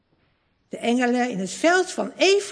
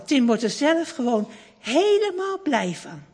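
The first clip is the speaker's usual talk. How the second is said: ordinary delivery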